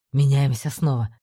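low, curt commander order; commanding order. A narrator's reading. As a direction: bark the switch order low.

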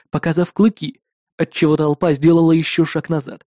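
plain reading voice

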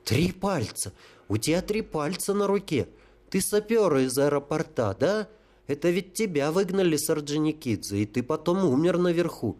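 a hint of high excited childlike voice; lightly voiced holy fool. Holy fool to the sapper, lightly childlike excitement. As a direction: blurt the discovery like a child.

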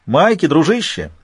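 high, loud taunting shout; shouting villain. A narrator's reading. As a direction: yell it over the rotors, gleeful. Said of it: "прокричал Альфа".

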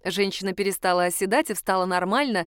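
usual speaking voice

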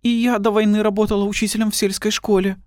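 high, hushed woman's voice; a lightly voiced frightened woman; timid woman's whisper. A narrator's reading. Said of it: "прошептала обладательница оспин". (тихий высокий женский голос)

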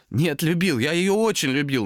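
high, strained, overwrought voice; anguished protest. A narrator's reading. Томас insists he loved his cat, anguished. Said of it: "надрывно отвечал Томас".

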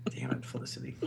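breathless whisper, scolding. Real, not acted. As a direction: hiss it under your breath.

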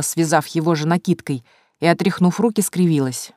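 plain reading voice

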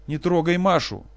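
high, loud cry; father screaming to protect Masha; desperate scream. Acted. Professor screams again.

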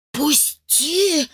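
a lightly voiced wheezing fairy; wheezed. A narrator's reading. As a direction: choke the word out while being strangled. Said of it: "просипела Агата".

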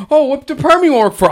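high, eager pickup line; flirty question. Retold or imitated. Man flirting with a store customer, eager and high.

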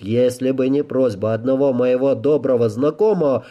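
lightly acted, mounting list of grievances; stern, fed-up Rey. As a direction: lay out the charges, then dismiss him impatiently.

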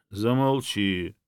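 plain reading voice

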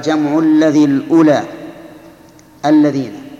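loud, measured recital of the verse line; verse recitation. Shown as a demonstration. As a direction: recite it firmly, running straight on to الذين without a joining "wa". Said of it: "لكن بحذف حرف العطف".

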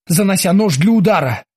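usual speaking voice

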